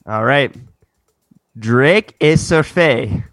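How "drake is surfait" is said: slow mock-French line. Shown as a demonstration. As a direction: sound it out slowly like French. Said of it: "go into a tiebreaker".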